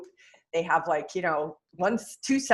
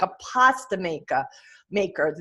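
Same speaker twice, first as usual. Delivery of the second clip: slipping into a New York accent; New York vowels on pasta maker. Real, not acted. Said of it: "my New York accent's coming out".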